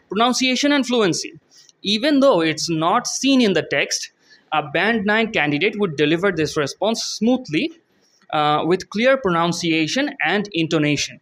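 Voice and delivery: slow, careful read of the English text; slow reading aloud. Shown as a demonstration. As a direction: read each word out slowly for students. Reads model answer aloud. (ধীরে ধীরে পড়ে শোনানো)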